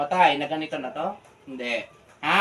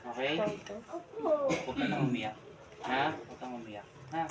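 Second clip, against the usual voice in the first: gentle soothing; 3 semitones lower, 11 dB quieter than usual. Real, not acted. Soothing a frightened child before treatment. (malumanay na pagpapatahan)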